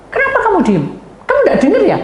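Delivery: loud, high-pitched mock demand; angry challenge. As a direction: imitate someone hotly demanding an answer. Agitated person challenges the silent speaker. (tantangan marah, lantang bernada tinggi)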